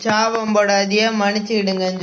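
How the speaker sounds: mocking imitation. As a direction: drag it out to ridicule her pleading. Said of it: "இவங்க ஒரு ஆள் ... சொல்லிட்டு நிக்காவ".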